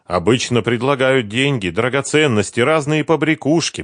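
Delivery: put-on eager young woman recalling Kiev; Sveta's voice. A narrator's reading. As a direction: chatter it brightly as Sveta. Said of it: "продолжала Света".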